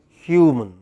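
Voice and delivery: Human with the first syllable stressed, falling away. Shown as a demonstration. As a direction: hit the start of Human, let the second syllable drop. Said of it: "first syllable".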